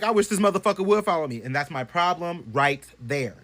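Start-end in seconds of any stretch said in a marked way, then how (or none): 0.0-1.4 higher, cocky dare. Retold or imitated. Bragging to friends, cocky dare. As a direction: taunt the ghost boldly. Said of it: "I'm like".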